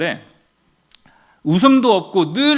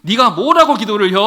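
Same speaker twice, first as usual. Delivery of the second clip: scoffing husband; 3 semitones higher, 6 dB louder than usual. Retold or imitated. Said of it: "남편은 더 재밌게 얘기한 거예요".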